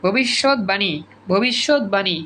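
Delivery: ভবিষ্যৎবাণী as bhobishot-bani; correct pronunciation. Shown as a demonstration. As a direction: sound a clear b in ভবিষ্যৎবাণী. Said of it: "ভবিষ্যৎবাণী না কিন্তু".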